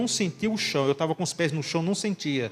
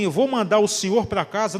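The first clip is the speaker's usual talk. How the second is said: louder, with weight on "vou"; voice of God; 4 dB louder than usual. Retold or imitated. Preacher to congregation, retelling God's promise, louder and emphatic. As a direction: boom it out as God's own voice. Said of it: "não foi a voz dele, não, aquilo foi a voz de Deus".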